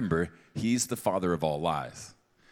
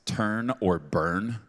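mocking slogan; 2 semitones higher, 4 dB louder, much slower than usual. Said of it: "I don't think that's how God talks".

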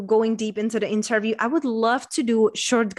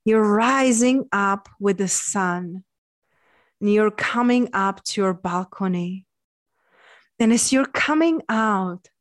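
guided visualization. Acted. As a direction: guide them gently into calm.

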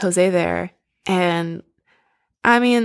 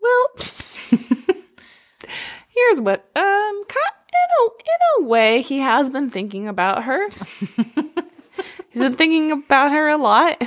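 much higher, laughing through the words; giggling; 7 semitones higher than usual. Real, not acted. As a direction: tease the answer while cracking up. Laughing while teasing the plot.

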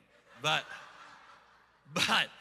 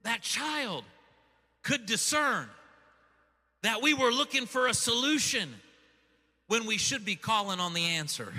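emphatic preaching in short, separated phrases; 2 semitones higher, 4 dB louder than usual. Real, not acted. Preacher drawing the lesson from his daughter's question, emphatic preaching. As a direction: drive the moral home phrase by phrase.

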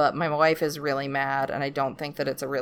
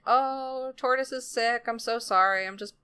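high voice, settling as it goes; apologetic wife; 4 semitones higher than usual. Retold or imitated. Wife makes excuses to Pig for her husband, high apologetic voice. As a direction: play an apologetic wife, pitched up. Wife acted, covering for Tortoise.

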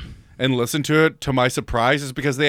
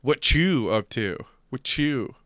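mimicking his delivery; slower than usual. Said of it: "how did you say it".

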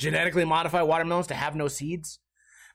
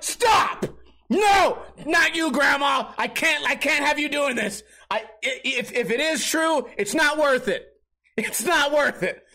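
frantic pleading shout; 7 semitones higher, slower than usual. Retold or imitated. Grandson frantically shouts at grandma to stop chanting. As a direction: yell at her to stop, panicked.

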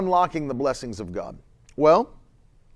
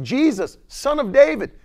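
Son of David rises high and louder; calling out; 8 semitones higher, 4 dB louder than usual. Retold or imitated. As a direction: call to the passing Messiah. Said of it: "he said".

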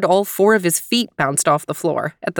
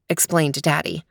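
usual speaking voice

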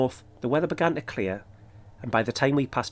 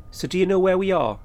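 mildly challenging question, pitched higher; quoted challenge with a raised pitch; 6 semitones higher, 4 dB louder than usual. A narrator's reading. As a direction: put it to them as a challenge, voice lifted. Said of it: "I challenged".

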